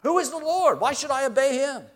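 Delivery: loud, high mocking challenge; the pluralistic world scoffing at Christian faith, loud and high; scoffing worldly voice. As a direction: toss the question back with disdain. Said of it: "They say".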